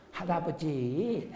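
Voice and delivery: put-on softly drawn-out little kid's plea; small child. Three-year-old grandson admonishes grandfather, soft childlike sing-song. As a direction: lightly imitate a preachy three-year-old. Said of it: "세 살 먹은 서산 제일교회 다니는 수일 학생이 오더니".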